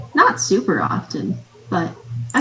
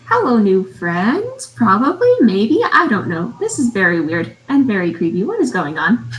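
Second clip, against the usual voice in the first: mildly hammed-up nervous greeting; hesitant; 3 dB louder than usual. Player voicing Gira greeting a creepy stranger, hesitant. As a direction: greet unsurely, lurching into doubt. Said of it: "look around hesitantly and be like".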